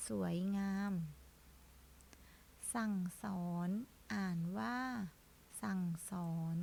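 slow, drawn-out word-by-word reading; reading drill. Shown as a demonstration. Teacher leading children in reading practice, slow and deliberate. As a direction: model each word slowly, holding the final syllable.

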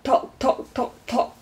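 crisp clipped clock tocks, trailing off; ticking tock sounds. A narrator's reading. Tock explaining his brother's name, clock tocks. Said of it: "he goes tock".

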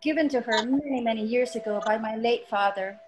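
measured poetry reading with long pauses between phrases; unhurried spoken-word recital of a personal poem. Acted. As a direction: recite it line by line, letting each phrase settle. Reads her poem aloud over music.

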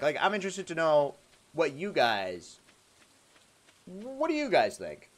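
measured politician asking for opinions; pause, then put the question to the crowd like a politician. Real, not acted. Streamer polling chat on what they think, politician voice. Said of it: "You have a politician voice?".

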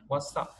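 "what's up" with the S run into "up"; linked sounds. Shown as a demonstration. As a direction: link "what's up" as one word, the S voiced like Z. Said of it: "chữ S này thì mình đọc thành âm Z".

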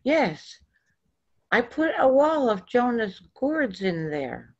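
put-on child explaining the root cellar; lightly voiced child. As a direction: hurry it like an anxious kid. Child we three answers.

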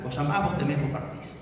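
AMÁS and TEMÉS with a pure stressed final vowel; single stressed vowel. Shown as a demonstration. Lecturer repeating the modern forms, single stressed vowel. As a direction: end AMÁS, TEMÉS on á and é, no glide. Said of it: "quedaron con una única vocal acentuada".

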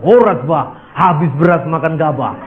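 a hint of Batak swagger; light Batak accent. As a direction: toss off the Batak greeting playfully. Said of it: "Itu orang Batak". (logat Batak ringan dan bercanda)

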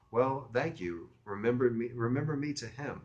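mildly gracious female phone voice; friendly woman. Acted. Woman sends regards to mutual friend, lightly friendly. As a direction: thank the caller with a touch of friendliness. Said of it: "She was getting friendly as hell".

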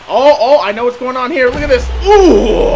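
excited. Real, not acted. Hyped at a game move.

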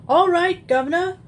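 a caught thief surrendering gruffly; husky burglar. Acted. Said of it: "a husky voice".

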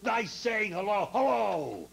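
lightly put-on greeting, each phrase gliding down; mock hello in the boy's manner; imitating the boy. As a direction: mimic how the boy talks. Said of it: "that's the way he al".

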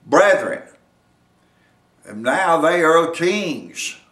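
slow, weighty proclamation on key words; measured sermon delivery with punched nouns; emphatic preaching. Real, not acted. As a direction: proclaim it to the congregation in spaced phrases. Preacher proclaims kings and lords.

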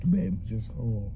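talking with food in mouth; words muffled by chewing. Real, not acted. Seen 1: bit at -12, jaw and lips still working through the words.

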